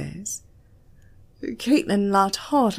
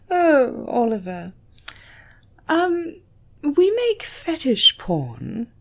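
blunt; 7 semitones higher, 4 dB louder, slower than usual. A narrator's reading. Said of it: "she said bluntly".

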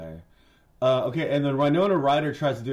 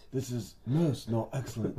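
mock Valley boy. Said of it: "like, Surfer Valley boy".

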